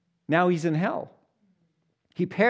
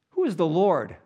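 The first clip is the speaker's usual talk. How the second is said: arrogant Pharaoh; 3 semitones higher, 5 dB louder than usual. Retold or imitated. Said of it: "Can you imagine how he's saying that".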